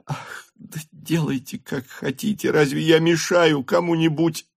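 high, plaintive give-up; grudging surrender. A narrator's reading. Countess yielding to her daughter, plaintive. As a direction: throw up her hands, hurt. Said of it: "ещё не вдруг сдаваясь".

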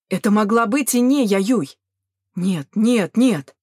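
emphatic, energised refusal; insistent denial. A narrator's reading. Young man sure it was someone else, insisting. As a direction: push each denial a little harder. Youth revives, refusing to believe death.

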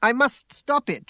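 high, loud desperate outburst; crying out. A narrator's reading. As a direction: cry out with urgency. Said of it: "she cried out".

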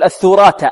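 الثراث said thurat, th first and t last; swapped ta and tha. Shown as a demonstration. Teacher imitates students' swap, th then t in الثراث. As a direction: flip the sounds in الثراث, starting th, ending t. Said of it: "والبعض ربما يقول".

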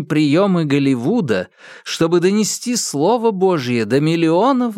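fervent televangelist sermon; preaching. Acted. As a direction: preach it to the faithful with fire. Preacher announces project. (проповедь телепроповедника)

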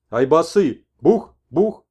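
high, loud bangs; mimicked gunshots. Old man warns the shaman of hunters with loud bangs. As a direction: shout bukh like a shot.

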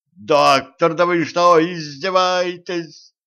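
loud, high outraged yell. A narrator's reading. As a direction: yell at the doctor in disbelief, slow on the last word. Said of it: "заорал Волынский".

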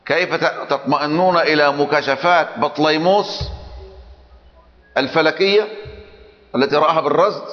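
lightly mocking the opponent's argument; quoting the sheikh. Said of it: "الشيخ ابن جرير يقول".

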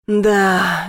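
ordinary delivery, nothing marked

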